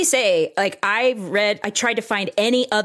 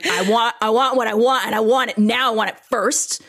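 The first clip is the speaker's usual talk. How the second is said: mock tantrum, pitched up; demanding rant; 3 semitones higher, 3 dB louder than usual. Patient venting rage to her gynecologist, demanding. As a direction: insist on each want, a little louder.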